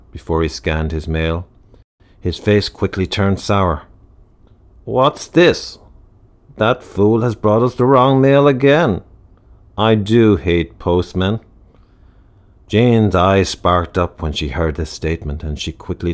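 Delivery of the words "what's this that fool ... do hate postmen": irritated outburst. Acted. Doctor sours at mail.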